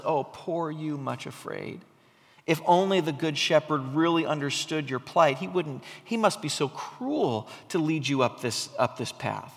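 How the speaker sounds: soft, wheedling, pitying voice; mock pity. Self-pity whispering to Much Afraid, softly mock-sympathetic. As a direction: coo it like a false friend. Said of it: "Self-pity comes, oh, and says".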